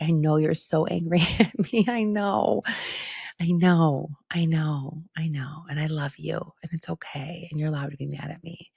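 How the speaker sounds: reassuring. Retold or imitated. Hugging her angry daughter.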